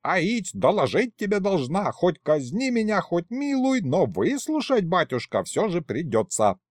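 high folksy female voice; insistent kikimora. A narrator's reading. Kikimora demanding the secretary's ear, high and insistent.

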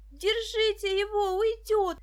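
high, loud, slow yell; girl yelling after the escaping thief, high and loud. A narrator's reading. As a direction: scream for them to stop the runaway. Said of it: "завопила Даша".

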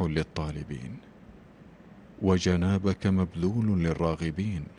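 measured prayer in short phrases with pauses; solemn supplication. Real, not acted. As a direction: address God in formal, emphatic cadences. Announcer leads a supplication.

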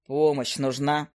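a calm offer in a low male voice; low hunter. Acted.

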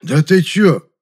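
an ex-convict squaring up to a man; defiant thug. Acted. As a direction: bristle like a thug. Ex-convict bristles.

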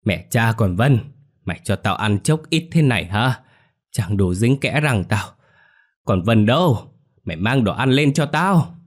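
put-on old woman yelling curses downstairs; angry cursing. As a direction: bellow for food, furious. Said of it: "chửi đồng lên".

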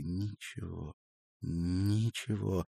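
subdued, choked-back refusal; tearful. A narrator's reading. Crying woman to worried man, tearfully dismissive. Marina crying, brushing him off.

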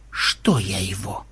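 low, soft, slow grumble; displeased. A narrator's reading. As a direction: ask it back in annoyance. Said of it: "недовольно поморщился программист". (недовольное ворчание)

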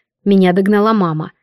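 usual speaking voice

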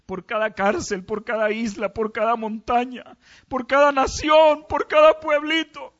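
from plain to loud, high fervent crying out; preacher's prayer climbing from plain to loud high fervour; prayer building to a shout. Real, not acted.

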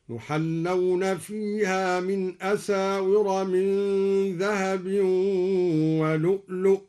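ولؤلؤ said "wa lu'lu'in", genitive ending, recited slowly; slow recitation, ولؤلؤ with i. Shown as a demonstration. Teacher demonstrates the genitive reading, slow recitation of ولؤلؤ. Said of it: "بجر لؤلؤا هكذا".

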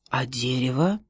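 whispered timid question; a whispered wary boy; hushed question. A narrator's reading. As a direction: breathe the question under your voice.

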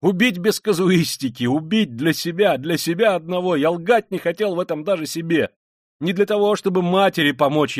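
high, loud, impassioned outburst; feverish confessing man. Acted. Killer confessing to Sonya, feverish and forceful. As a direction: confess in a driven torrent.

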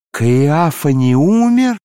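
furious cry. Acted. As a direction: hurl the question out in fury. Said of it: "закричала". (яростный крик)

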